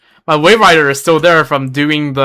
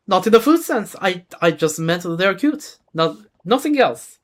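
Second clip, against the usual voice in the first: put-on slightly raised character voice, lightly French-accented; attempted French accent; 4 semitones higher than usual. Melusine clarifying her remark on fungi, light French accent. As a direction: try a French accent, a touch hesitant. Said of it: "do a voice with a French accent".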